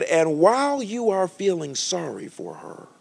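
slow, lofty divine voice; slow solemn divine voice; voice of the Holy Spirit. Retold or imitated. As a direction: speak it slowly like heaven's verdict. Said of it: "He said".

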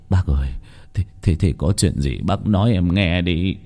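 nervous, stammering plea; anxious stammer. Acted. Grandfather anxiously asks the master, stammering. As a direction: stumble over the words in worry. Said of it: "Ông ngoại nói".

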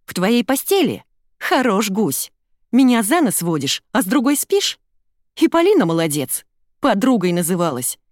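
loud, high, furious accusations; angry tirade. A narrator's reading. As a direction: hurl it at the cheating boyfriend. Jealous Ira accuses Sasha.

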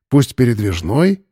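usual speaking voice

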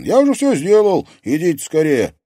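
loud, high, eager urging. A narrator's reading. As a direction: hurry them over to see. Artyom eager, continuing.

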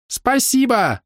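put-on excited girl squealing thanks; squealed thanks. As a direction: squeal it in delight. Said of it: "взвизгнула девушка".

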